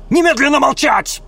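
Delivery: high loud command; furious order. Acted. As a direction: shut him up now. Woman silences him.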